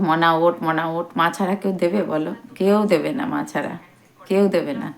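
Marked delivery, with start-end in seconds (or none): 0.1-1.1 loving wake-up call. Retold or imitated. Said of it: "মা আমাকে মনা বলে ভালোবেসে".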